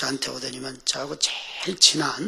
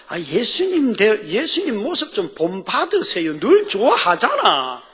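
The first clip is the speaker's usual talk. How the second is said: exasperated appeal; 5 semitones higher, 6 dB louder than usual. Real, not acted. Preacher urging congregation to be like Jesus, exasperated plea. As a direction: plead loudly, stretching the phrases.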